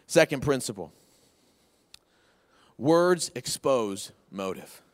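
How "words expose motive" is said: slow, weighty, each word set apart; slow emphatic point. Shown as a demonstration. Preacher to congregation, slow and weighty. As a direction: lay it down slowly for note-taking. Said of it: "Write that down".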